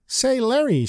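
voicing the clerk. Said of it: "she says with a smile".

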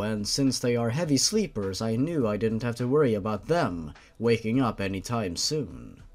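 steady audiobook narration of a grim tale; story narration. A narrator's reading. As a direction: read it like a dark bedtime story. Reads fanfiction chapter aloud.

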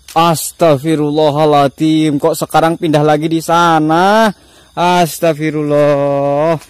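loud, drawn-out cries of dismay; shocked outcry at a new sighting; alarmed exclamation. Real, not acted. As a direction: stretch the words out in alarm. Ghost has moved again.

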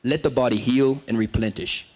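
lightly voiced solemn trainer; a hint of the grave mentor voice; mild imitation of Dodd. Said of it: "and I'm like".

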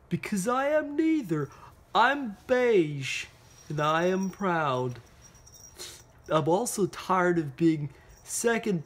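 lightly voiced indignant crayon, slow sign-off; proud beige crayon letter. Reading Beige Crayon's letter to Duncan, mildly indignant. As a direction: read it as a slightly huffy, proud crayon.

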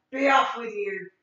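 troll waving off the little goat; troll dismissal. Acted. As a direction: send him off like a troll.

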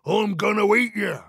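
fast threat rising to a loud peak; quick, menacing troll, climbing high. A narrator's reading. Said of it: "said the Troll".

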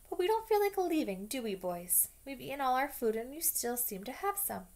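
a bully enjoying the fight; taunting. Acted. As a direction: goad the boys with a high jeer. Malfoy taunting, pitched high.

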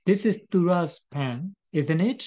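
This is Tura's pen said very slowly, word by word; slow example read. Shown as a demonstration. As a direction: dictate the example sentence slowly. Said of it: "that is ဒီလိုမျိုးပြော".

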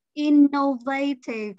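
innovative with the stress moved onto VA; misplaced stress on the VAY of innovative; stress on third syllable. Retold or imitated. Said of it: "dấu nhấn đặt ở âm thứ nhất".

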